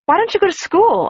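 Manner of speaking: tumbling, eager interrogation; rattling on. Acted. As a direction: fire the questions off in a breathless rush. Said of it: "I rattled on suddenly".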